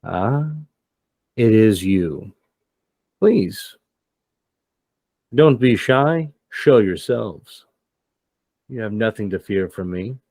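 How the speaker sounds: lightly acted villain coaxing people out; mock-courteous invitation with a lifted start; inviting villain. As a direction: play at luring them out. Game master voices the arriving villain.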